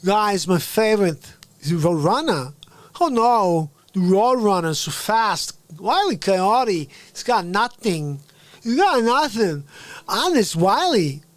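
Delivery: loud-ish, swooping excited cartoon fan; comic character voice. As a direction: punch each phrase with exaggerated rises and falls.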